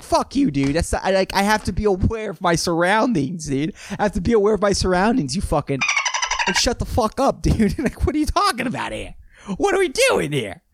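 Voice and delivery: building to a high incredulous snap; annoyed driver venting, mock outrage; mock rant. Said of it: "It's like".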